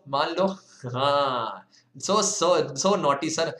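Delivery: ordinary delivery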